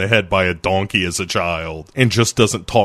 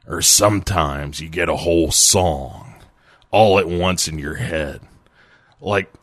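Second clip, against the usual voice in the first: a singer. Acted. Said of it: "a singer, in describing his creation process, says".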